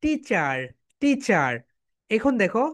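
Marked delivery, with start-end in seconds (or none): 0.0-1.5 American "টিচার" with the final r sounded; American accent. Shown as a demonstration. Teacher shows the class the other sound, American accent. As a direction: say "টিচার" American-style, ending in "char". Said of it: "And American sound".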